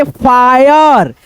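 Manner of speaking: फायर drawn out slowly on the "aa-i" glide; demonstrated pronunciation. Shown as a demonstration. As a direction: stretch the vowels in फायर. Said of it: "आ ई से पढ़ते हैं". (फायर को खींचकर, धीरे)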